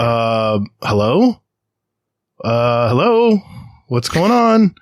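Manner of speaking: calling out to the driver rolling back toward him in disbelief; incredulous call-out. Retold or imitated. Mock alarm at a car rolling back.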